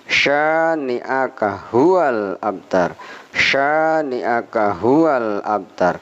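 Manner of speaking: "huwal abtar" read slowly, h and b crisp; slow model reading. Shown as a demonstration. Teacher models the verse for students. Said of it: "huwal alam alif".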